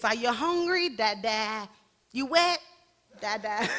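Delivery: light parent questions then a hint of baby babble. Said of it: "it kinda goes like this".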